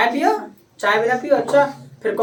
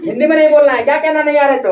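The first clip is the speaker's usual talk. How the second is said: firm telling-off; 4 semitones higher, 6 dB louder, faster than usual. Real, not acted. Teacher scolds pupils for Hindi.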